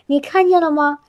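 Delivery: normal talking voice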